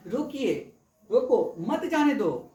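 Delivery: slow, deliberate "रोको", then "मत जाने दो" held together; urging to stop. Shown as a demonstration. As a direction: order someone stopped, break after "रोको". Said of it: "रोकना है". ("रोको" पर रुककर, "मत जाने दो" धीरे और साथ में)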